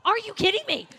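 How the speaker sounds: incredulous laugh through the words; amused, can't-believe-it laugh; laughing disbelief. Retold or imitated. Her inner reaction, laughing.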